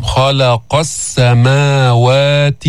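slow chanted خلق, thick خ and thin ل; heavy kha, light lam. Shown as a demonstration. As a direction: recite خلق with full خ but keep the ل light. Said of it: "نفخم الخاء ولا نفخم اللام".

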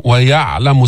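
ويعلم with a vowelless, held ع; ya'-lamu, ع closed; still ayn. Shown as a demonstration. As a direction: rest on the ع of ويعلم without adding a vowel. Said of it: "سكن العين ما تحركها".

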